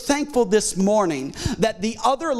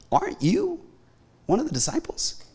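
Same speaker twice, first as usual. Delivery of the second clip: sweet little lady; 5 semitones higher, 3 dB quieter than usual. Acted. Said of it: "sweet little lady".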